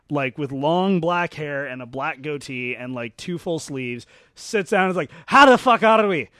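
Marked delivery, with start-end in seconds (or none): 5.3-6.3 hearty Scottish greeting. Retold or imitated. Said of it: "Like that".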